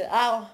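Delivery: "au" cried out loud like a sudden hurt; pained ow. Shown as a demonstration. Singer showing how the band name sounds when hurt, a loud yelp. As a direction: yelp "au" as if you just hurt yourself. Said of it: "quando aleijas-te".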